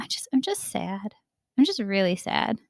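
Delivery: soft whisper, trailing into a hushed voice; whispered admission. Retold or imitated. Admitting to herself she is sad, whispered. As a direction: breathe it out to yourself, giving in.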